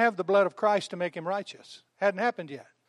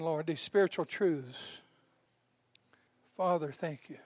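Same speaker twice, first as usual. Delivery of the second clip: closing prayer; 4 dB quieter than usual. Real, not acted. Preacher leads the congregation in a closing prayer. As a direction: pray quietly and earnestly.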